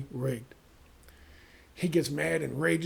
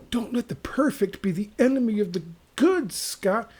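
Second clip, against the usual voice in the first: mocking whisper; 5 semitones higher, 4 dB louder than usual. Mocking a voter's advice.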